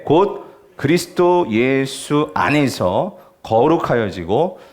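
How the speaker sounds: slow, measured recitation; scripture reading. Real, not acted. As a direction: lead a congregation reading slowly in unison. Leads congregation reading scripture aloud together.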